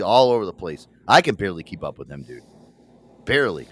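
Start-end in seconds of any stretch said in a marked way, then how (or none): none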